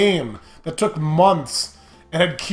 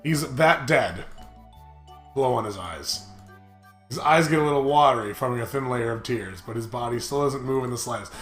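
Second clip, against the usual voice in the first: story narration; 4 semitones lower, 5 dB quieter than usual. Acted. Reads game narration aloud.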